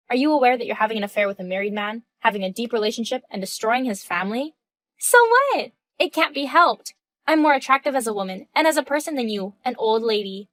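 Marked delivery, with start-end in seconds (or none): 5.0-10.5 scornful. Acted. Mistress sneering at the older wife as an old lady. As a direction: sneer down at her. Mistress brushing off wrecking a family.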